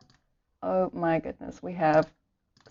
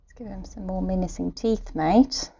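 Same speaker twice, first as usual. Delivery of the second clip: put-on terrible Australian accent. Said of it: "the day of the terrible Australian accent".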